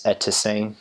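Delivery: careful Twi pronunciation of "Eteseng"; Twi greeting. Shown as a demonstration. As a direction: say "Eteseng" as a Twi word, syllable by syllable. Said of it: "I mentioned one is".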